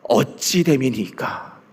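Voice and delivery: plaintive question. Retold or imitated. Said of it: "뭐라고 얘기합니까?".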